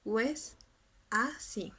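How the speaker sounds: "O es" glided into one syllable, wes, then a, sí apart; three syllables. Shown as a demonstration. Teacher demonstrating the reduction, "O es así" in three syllables. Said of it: "nos va a resultar con tres".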